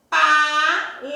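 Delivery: "Paletó" slowly split as pa-le-tó, stressed on "tó"; syllable by syllable. Shown as a demonstration. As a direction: sound out "Paletó" in long syllables, ending on a strong "tó". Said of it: "O tó tá acentuado". ("Paletó" bem devagar, sílaba por sílaba, com "tó" forte)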